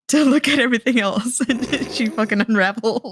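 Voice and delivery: laughing. Real, not acted. Laughs while finishing her theory.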